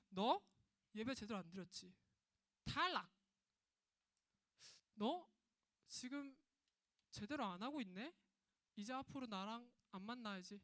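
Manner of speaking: mock-stern rejection with a loud punch on 탈락; harsh scolding God. Preacher pretending God coldly rejects Cain, sharp scold. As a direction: bark the verdict like a strict judge. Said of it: "이렇게 하시는 분이에요?".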